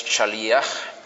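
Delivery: shaliach said sha-LI-ach, stress on the I. Shown as a demonstration. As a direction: lean on the I in shaliach. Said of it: "con acento en la I".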